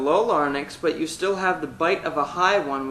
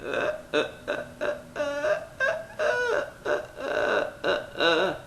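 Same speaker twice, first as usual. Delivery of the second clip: edgy uh; 11 semitones higher, 3 dB quieter than usual. Shown as a demonstration. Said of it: "Get edgy".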